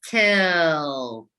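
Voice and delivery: "Tilts" drawn out, ending on the s; stretched word. Shown as a demonstration. Teacher stretching "Tilts" to find the last sound. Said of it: "what's the last sound you hear?".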